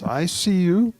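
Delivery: slow, tender. Shown as a demonstration. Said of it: "So just say those three".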